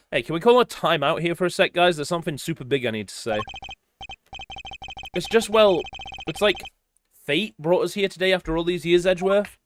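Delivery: lightly acted character lines, a hint of each voice; voiced game dialogue reading. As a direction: read the scene as the cast, lightly voiced.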